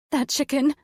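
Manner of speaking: put-on high childish whine; whiny five-year-old. A narrator's reading. Panicked woman to her partner, whiny child voice. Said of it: "that stupid fucking whiny voice".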